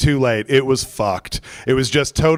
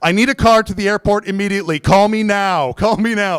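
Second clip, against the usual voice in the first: higher-pitched, demanding retold voicemail; super pissed; 5 semitones higher than usual. Angry customer baiting the car service into calling back, super pissed. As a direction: demand a callback with urgency. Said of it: "now I'm getting super pissed".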